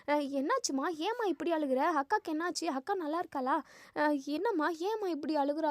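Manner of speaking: lightly acted flustered questions; retold anxious questioning. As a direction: ask anxiously, as a storyteller voicing a worried daughter. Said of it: "பதட்டமா கேட்கவும்".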